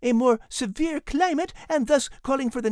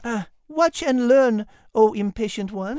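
smug Liz; 3 semitones lower, 3 dB louder than usual. Acted. Liz's slow smug reply.

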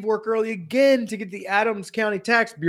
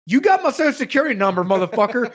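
indignant retort; 3 semitones higher, faster than usual. Retold or imitated. Retelling what he told the tax office, a quick indignant jab. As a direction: fire it back fast in mock outrage.

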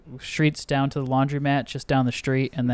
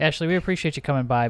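usual speaking voice

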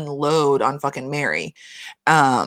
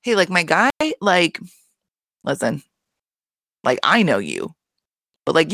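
checking on a friend; 3 semitones higher than usual. Retold or imitated. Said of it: "you should be able to be like".

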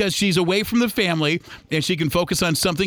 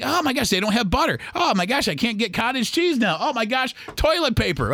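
mock dismay; 5 semitones higher than usual. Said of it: "So I'm like".

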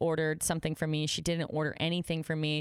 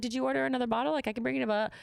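overly polite; 7 semitones higher, faster than usual. Retold or imitated. Retold polite offer to customer.

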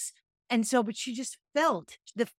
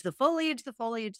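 lilting foliage; 2 semitones higher than usual. Shown as a demonstration. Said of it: "These, the foliage".

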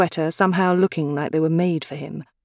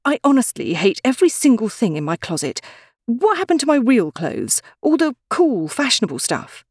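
fretful complaint; 7 semitones higher, 3 dB louder than usual. Acted. Despairing over her closet.

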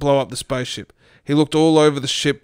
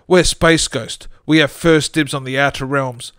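comedic ghost voice. Acted. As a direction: moan it like a cartoon ghost. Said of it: "in a comedic ghost voice".

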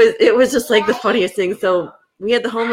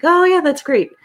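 mock enthusiasm; 10 semitones higher, 4 dB louder than usual. Feigned enthusiasm about pie meeting.

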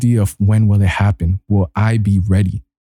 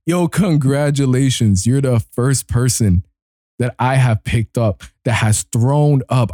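mock-solemn congratulations. Acts congratulating the sick passenger.

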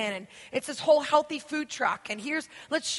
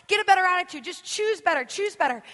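higher, louder scolding list; mock self-scolding; nagging inner voice; 5 semitones higher, 4 dB louder than usual. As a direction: lecture yourself like a nag. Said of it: "Our attitudes many times is".

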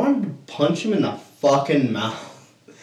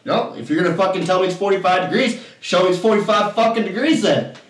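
higher-pitched, insistent demand; retold exasperation; 5 semitones higher than usual. Player demands proof of the angle, exasperated. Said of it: "I started getting, like, really".

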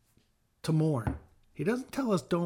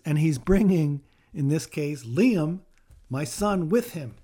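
loud fervent preaching; 7 dB louder than usual. Real, not acted. Father speaks of his dead son.

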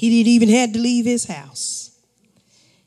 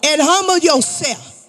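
preaching shout. Real, not acted. Preacher exhorts congregation.

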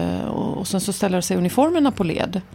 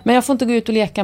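put-on higher, louder and fast, like a sulking kid; frustrated child's complaint; 4 semitones higher, 5 dB louder, faster than usual. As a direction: blurt it out in a rush as the kid who can't go out. Child's frustrated refrain repeated.

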